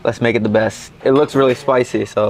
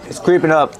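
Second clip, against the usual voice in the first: voice cracking. Real, not acted. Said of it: "My voice is cracking".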